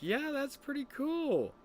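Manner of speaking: high, drawn-out approval; stretched-out mock-impressed voice; humouring him. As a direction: act out slow, high-pitched humouring. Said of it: "And I'm like".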